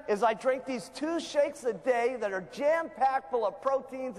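eager, enthusiastic sales pitch; excited answer. Shown as a demonstration. Seller answering a customer's weight-loss question, gushing. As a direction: sell it like you can't contain yourself. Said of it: "they're not gonna believe in your excitement".

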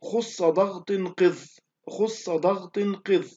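"خص ضغط قذ" very slow, each heavy consonant thickened; slow tafkhim mnemonic. Shown as a demonstration. Teacher gives students the memory phrase, "خص ضغط قذ" slow and heavy. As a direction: stretch out "خص ضغط قذ" word by word with full-mouthed letters. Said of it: "مجموعة في قولك".

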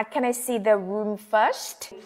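slow, clear model question; careful slow model sentence. Shown as a demonstration. Teacher modelling a travel phrase slowly for students. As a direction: spell it out slowly for learners. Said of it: "yêu cầu một cách khẩn thiết hơn".

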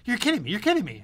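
mock disbelief, high and jittery; nervous wreck. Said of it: "is a nervous wreck".

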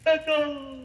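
high, long call into a canyon; yelled echo call. Acted. Puppet tells of Grand Canyon trip, high yelled call. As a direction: holler it out to hear it bounce back. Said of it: "he yelled out to the Grand Canyon".

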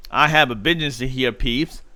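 mild rasp, slow; croaking. Acted. Harry warning Peeves away, lightly croaked. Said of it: "croaked Harry".

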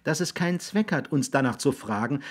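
put-on high, patient boy's voice. A narrator's reading. Raby explaining to William why asking is pointless, patient. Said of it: "sagte Raby geduldig".

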